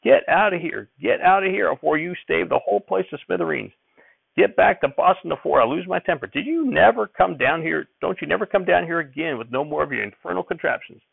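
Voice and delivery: high-pitched, furious grandfather's tirade; angry shouting. A narrator's reading. Grandfather throws Uncle Levi out after the accident, shouting angrily. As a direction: rant it high, ordering him off. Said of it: "and shouted at Uncle Levi".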